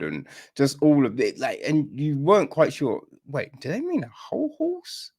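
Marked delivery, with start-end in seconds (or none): 3.3-5.1 high, whispered confusion; puzzled whisper. Retold or imitated. Viewer puzzling over the horse head, whispered. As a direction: breathe it like a baffled secret.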